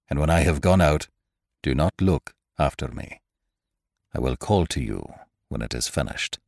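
hoarse hushed command; creaky whisper. A narrator's reading. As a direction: whisper it low and rough. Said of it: "came a hoarse whisper".

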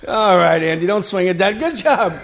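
encouraging coach, pitch jumping on the action; lightly acted Little League commentary; mock ballgame cheering. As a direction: cheer him on from the sidelines, playfully. Acts out cheering Andy at baseball.

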